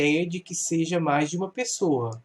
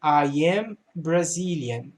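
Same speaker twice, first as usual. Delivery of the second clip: slow reading; slower than usual. Shown as a demonstration. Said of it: "é am".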